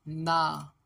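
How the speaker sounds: ना loud and long as "naa"; syllable sound demo. Shown as a demonstration. Teacher joins the consonant with आ, drawn-out ना. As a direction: stretch ना firmly on the open vowel. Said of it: "आ के साथ मिलेगा तो".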